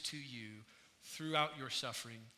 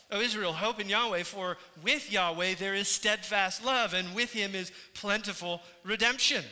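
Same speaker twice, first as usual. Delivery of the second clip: proclaiming; 5 semitones higher, 8 dB louder than usual. Acted. Preacher proclaims the reasons aloud.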